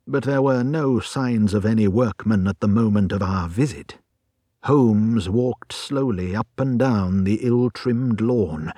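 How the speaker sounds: ordinary delivery, nothing marked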